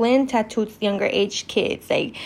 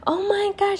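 imitating mad mom; 10 semitones higher, 3 dB quieter than usual. Mom reacting to daughter's court fight, imitated exasperation. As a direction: mimic mom's fed-up outburst. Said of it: "she was so mad".

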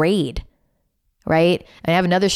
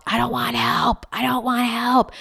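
upset daughter; 7 semitones higher than usual. Retold or imitated. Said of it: "daughter frustrated".

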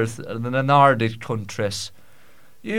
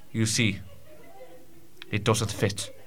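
sighing confession; 4 semitones lower, 10 dB quieter than usual. Acted. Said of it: "He sighed and said".

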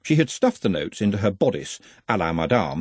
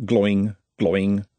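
ringing boing imitation; level, echoed boing; bouncing ball noise. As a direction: sound out two bounces of a ball, evenly.

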